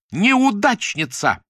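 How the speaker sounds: high, loud, slow sneering shout; drawn-out insult. A narrator's reading. Lyuda hurls a last insult at Nadya, slow sneering shout. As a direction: stretch the insult out to wound.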